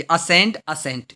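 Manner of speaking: असेंट twice, both sounded alike as "a-SENT"; identical pronunciation demo. Shown as a demonstration. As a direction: repeat असेंट with the same sounds each time. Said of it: "इनका pronunciation same है". (असेंट दोनों बार एक जैसा उच्चारण)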